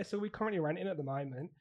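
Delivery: casual put-on Aussie accent; Australian accent. Teaching assistant asking recruiter about fostering, Australian accent. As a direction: play an Australian making an enquiry. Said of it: "I'm actually from Australia".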